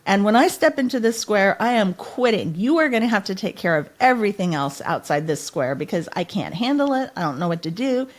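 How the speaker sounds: defiant outcry. Retold or imitated. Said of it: "I pointed and I said".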